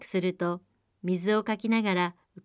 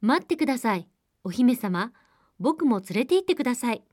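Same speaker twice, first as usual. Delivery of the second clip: frog calling out; 3 semitones higher, 3 dB louder than usual. Acted. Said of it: "カエルは大声で叫びました。".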